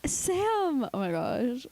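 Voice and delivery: high, drawn-out cry of disbelief; shocked exclamation. Real, not acted. Appalled at friend who hasn't watched the film, shocked.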